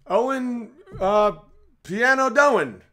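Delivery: high, loud, slow mock Cockney. Mock Cockney, mimicking a Cockney speaker's rhyming talk. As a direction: drag it out in a hammed-up Cockney. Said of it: "who does thick Cockney".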